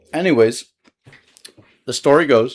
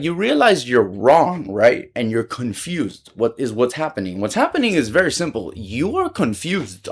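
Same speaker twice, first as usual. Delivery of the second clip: retold condescending lecture. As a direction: spell it out word by word. Lecturing the accuser.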